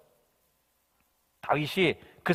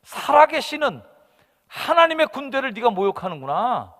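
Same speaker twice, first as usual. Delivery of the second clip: proclaiming; 8 semitones higher, 6 dB louder than usual. Acted. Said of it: "깜짝 놀랄 만한 사실을 얘기합니다".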